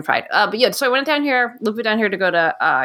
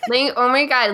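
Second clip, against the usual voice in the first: put-on higher, perky Valley girl "oh my God"; 4 semitones higher than usual. Guest plays up her Valley roots, mock Valley girl. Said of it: "talk like a Valley girl".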